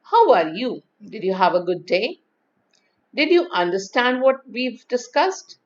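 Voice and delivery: questions lifting up at "day" and "discussed"; rising tone. Shown as a demonstration. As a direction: ask "How are you" brightly inflected, inviting a response. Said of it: "we use the rising tone".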